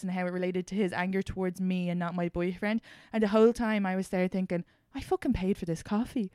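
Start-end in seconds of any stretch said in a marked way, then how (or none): 4.9-6.3 exasperated rant. Retold or imitated. Retelling her inner rant.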